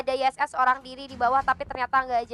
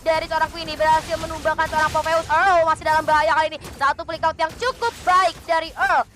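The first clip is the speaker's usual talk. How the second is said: esports caster; 2 semitones higher than usual. Real, not acted. Live teamfight commentary.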